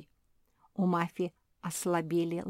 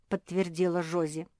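plain reading voice

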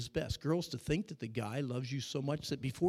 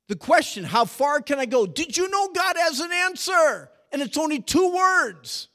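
loud, high pulpit preaching; fiery revival preaching; preaching at full force; 11 semitones higher, 12 dB louder, slower than usual. Acted. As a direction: preach it out to the crowd.

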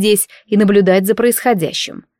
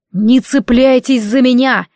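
irritated; 3 semitones higher, slower than usual. Acted. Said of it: "раздражённый голос сына".

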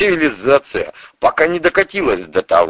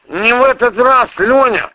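high, loud, insistent man's voice; the prosecutor cutting in, loud and high; prosecutor's voice; 13 semitones higher, 5 dB louder than usual. Acted. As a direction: voice in his head, loud and high. Prosecutor's voice bursting into head.

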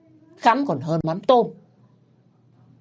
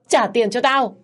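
high, loud shriek for the money; screaming demand; 7 semitones higher, 4 dB louder than usual. Acted. Miệt screams at him over the phone to pay up, shrieking. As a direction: scream it out, furious and desperate. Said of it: "gào lên dãy đành đạch".

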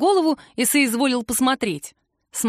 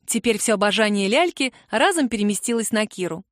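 usual speaking voice

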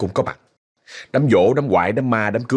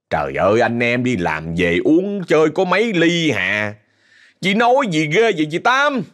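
drawn-out, exasperated complaint climbing higher; annoyed protest; 4 semitones higher than usual. Acted. Drinker turns round to answer the cursing neighbour, annoyed. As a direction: protest like a fed-up drinking buddy. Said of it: "Có người mà bực quá đó".

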